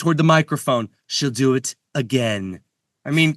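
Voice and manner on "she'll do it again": mock Trump line. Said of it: "that's classic Trump".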